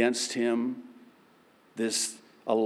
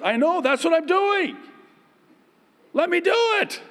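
much higher, louder, patient God voice; God's voice; 5 dB louder, faster than usual. Acted. God replying to the struggling believer, high and loud. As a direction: play God, exasperated but kind.

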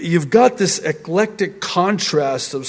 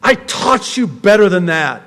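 mock exasperated teacher, rising higher and louder; imagined scolding Lord; 8 semitones higher, 4 dB louder than usual. The Lord imagined reminding Peter of his lessons, mock scolding. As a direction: scold a forgetful pupil, building. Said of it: "The Lord responding this way".

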